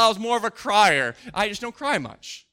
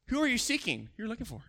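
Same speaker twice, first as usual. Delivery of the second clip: little smirk; 9 dB quieter, faster than usual. Shown as a demonstration. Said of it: "Jesus there with a little smirk".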